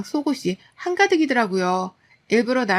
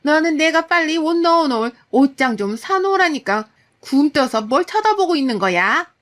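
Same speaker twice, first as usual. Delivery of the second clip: higher, louder nagging scold; angry mother-in-law; 5 semitones higher, 4 dB louder than usual. Retold or imitated. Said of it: "저한테도 화를 내기 시작하셨죠".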